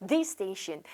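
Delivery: "This station" run together on one s; single s. Shown as a demonstration. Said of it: "한 번만 발음해 볼게요".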